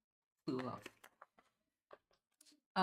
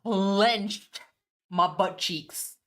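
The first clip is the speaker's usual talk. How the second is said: tense exclaim; 3 semitones higher, 7 dB louder, much slower than usual. Real, not acted. Tense moment in game.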